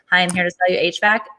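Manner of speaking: flat monotone door-to-door pitch. Shown as a demonstration. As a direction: say it in a dull one-note voice. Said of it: "answer in a monotone".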